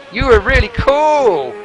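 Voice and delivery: high, loud mock Italian accent; thick Italian accent. Quiz host quotes the game's driving tutor, thick Italian accent. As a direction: imitate a racing tutor in hammed-up Italian English. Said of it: "his really thick Italian accent".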